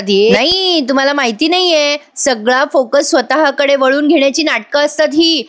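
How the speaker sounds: retold scornful rant, climbing in pitch; rude, insolent. Priya accusing Madhubhau of attention seeking, rude and insolent. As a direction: act out impudent, exasperated accusations. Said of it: "Priya अशी उद्धटसारखं बोलतेय ना".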